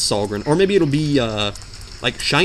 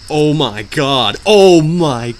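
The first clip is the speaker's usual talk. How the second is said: mock dread; 6 dB louder, much slower than usual. Dreading the boss.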